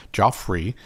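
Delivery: "Joffrey" with an "o", Joff-ree; misspelling read literally. Retold or imitated. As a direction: slowly sound "Joffrey" out as if spelt Geoff. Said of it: "Like Joffrey".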